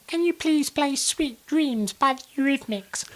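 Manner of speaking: high, slow, dreamy drawl; slow, faraway drunk request; eyes-closed dreamy plea; drunk bloke with eyes shut. Retold or imitated.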